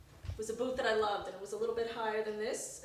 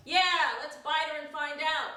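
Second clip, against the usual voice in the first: vampire; 6 semitones higher, 7 dB louder than usual. Retold or imitated. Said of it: "another one was like".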